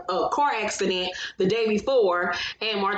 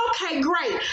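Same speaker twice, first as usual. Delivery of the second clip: higher-pitched mock-pleased answer; put-on polite reply; 6 semitones higher than usual. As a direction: imitate a polite, high okay. Voices Melody answering guard.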